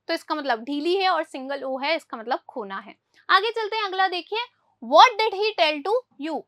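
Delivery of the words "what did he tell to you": very slow, word by word, for the class; slow dictation. Shown as a demonstration. Teacher reads the English example to pupils very slowly. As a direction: spell out every word for Hindi-speaking pupils. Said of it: "teacher reads example sentence slowly".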